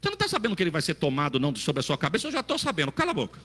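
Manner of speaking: Eliseu snapping, high and fast; rude Eliseu. Retold or imitated. Eliseu telling the prophets' sons to shut up, high and fast. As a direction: brush them off rudely, quick and sharp. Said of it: "É o que Eliseu tava falando".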